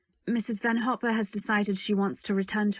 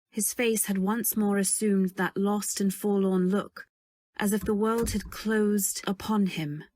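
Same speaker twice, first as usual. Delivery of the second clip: calm reflective narration; story narration. A narrator's reading. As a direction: tell it like a memory. Narration over music.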